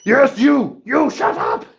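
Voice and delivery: loud high playful scold at the dog; playful loud telling-off; mock scolding. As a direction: tell the dog off in jest.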